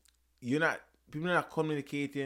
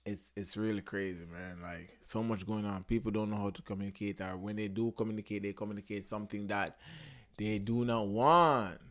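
ordinary talk

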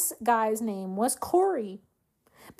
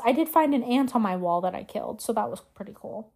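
sarcastic; 3 semitones lower than usual. Real, not acted. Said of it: "I was being sarcastic".

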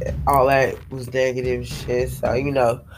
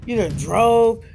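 her body lecturing her to rest, pitched way up; body scolding her; 8 semitones higher than usual. Retold or imitated. Her body scolds her after the partying, high and bossy. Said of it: "my body was like".

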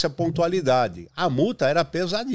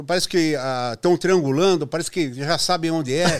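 lightly voiced anxious engineer; worried engineer; 5 semitones higher than usual. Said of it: "E aí vinha o engenheiro".

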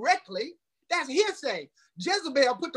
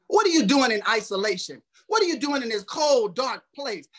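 preaching; 4 dB louder than usual. Acted. Preaching to congregation.

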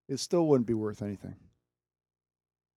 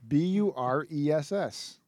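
spelling it out; 3 semitones higher, slower than usual. Shown as a demonstration. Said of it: "spells the name out".

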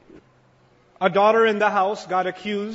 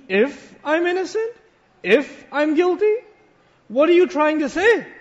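rising into an outraged challenge; wounded wife confronting her husband; indignant anger. Retold or imitated. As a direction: demand it back, hurt and angry.

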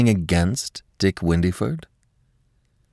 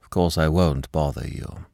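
formal; 3 semitones lower, 4 dB quieter than usual. Acted. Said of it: "he said formally".

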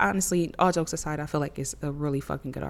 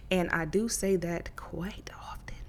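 whispered aside, slower; whispering; 6 dB quieter, slower than usual. Real, not acted. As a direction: drop to a sly whisper. Quiet aside about cursing.

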